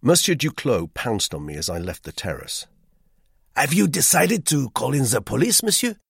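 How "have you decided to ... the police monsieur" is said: high, loud, fussy Frenchman; eager hotel guest. A narrator's reading. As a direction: press him with busy insistence. Duclos voiced in the story.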